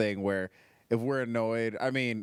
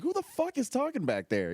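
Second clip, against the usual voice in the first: high-pitched imitation of an annoyed comic; pitched-up mock yell, no added volume; mock indignant call-out; 12 semitones higher than usual. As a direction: imitate calling to the back of the room. Retells comic calling out from stage.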